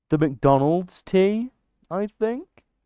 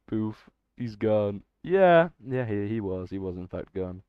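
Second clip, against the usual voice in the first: deadpan; 5 semitones lower, 5 dB quieter than usual. Real, not acted. Deadpan joke about banned viewer.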